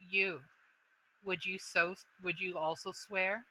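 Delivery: understated dragon voice, quiet and probing; mother dragon. Acted. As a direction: ask like a wary old dragon weighing an oath.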